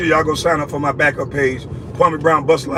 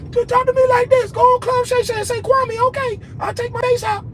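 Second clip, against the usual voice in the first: mocking falsetto, very high and little; bass-free quivery voice. Showing Shannon how to talk to him, mock falsetto. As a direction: squeak it out with all the bass gone. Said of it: "Let your voice quiver up and goddamn take that bass out your voice".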